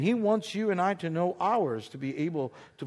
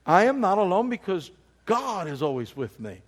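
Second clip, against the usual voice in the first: congregation repeating; 3 semitones higher, 6 dB louder than usual. Real, not acted. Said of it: "Can you say that?".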